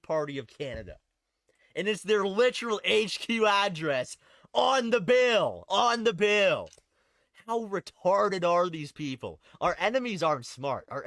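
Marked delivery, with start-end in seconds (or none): 1.8-9.4 raised, higher voice, incredulous; loud disbelief. Real, not acted. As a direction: hit the repeated phrase louder and slower, exasperated. Incredulous at blunder on the bill.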